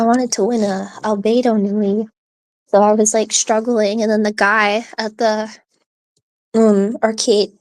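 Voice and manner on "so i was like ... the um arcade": hiccuping mid-sentence; words broken by hiccups. Real, not acted. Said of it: "I have the hiccups now".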